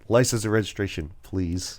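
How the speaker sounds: softly voiced polite police officer, imitated; nice and calm. Cop stops driver for papers, trying to stay nice and calm. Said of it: "trying to be nice and be calm".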